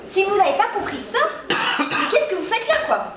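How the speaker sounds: scolding through giggles; laughing scold. Acted. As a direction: try to scold but keep laughing. Fake professor scolding students, laughing. (reproche en riant)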